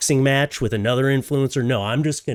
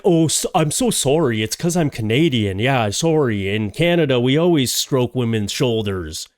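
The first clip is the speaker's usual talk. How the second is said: mock Canadian guy. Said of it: "he was like".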